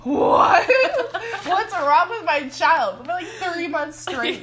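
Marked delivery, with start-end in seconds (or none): 0.0-3.0 slow, loud, laughing mock dad cry; imitating her dad fearing his baby is possessed; panicked dad. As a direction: wail like a spooked father. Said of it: "my dad would just be like".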